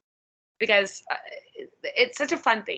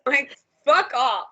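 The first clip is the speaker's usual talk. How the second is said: blunt dismissal; 3 semitones higher, 4 dB louder, slower than usual. Real, not acted. Dismissing pushy fans.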